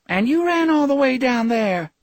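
high-pitched disbelieving wife; incredulous repeated question. A narrator's reading. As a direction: ask yet again, high and incredulous. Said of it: "Belinda Josephson asked for the third time".

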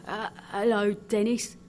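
sleepy, mumbled greeting; half-awake muttering; confused mutter. Acted. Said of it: "muttered the confused seaman".

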